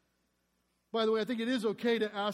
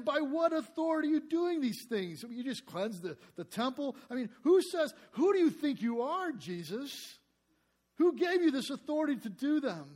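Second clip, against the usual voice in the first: higher, indignant challenge; mock challenge; 4 semitones higher than usual. Priests challenging Jesus in the temple, indignant. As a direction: confront him like an affronted priest.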